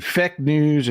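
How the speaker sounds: "fake" said with a short, open vowel, like "feck"; drawn-out "fake news" with "fake" as "feck"; Trump's pronunciation of fake. Shown as a demonstration. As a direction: imitate a politician saying "fake" as "feck". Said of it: "he says fake".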